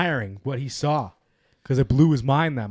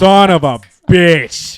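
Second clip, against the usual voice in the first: frustrated curse; 3 semitones higher, 11 dB louder, much slower than usual. Retold or imitated. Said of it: "You're just like".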